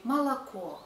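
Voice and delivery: молоко as a light "muh-la-KO"; neutral reduced vowels. Shown as a demonstration. Teacher showing correct speech, молоко with reduced vowels. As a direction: pass quickly over the first vowels of молоко to the final o. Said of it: "we say".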